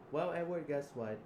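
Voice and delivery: loud, high gloat; gloating shout. Acted. Gloating over wounded Edward, loud and high. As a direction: crow it over him.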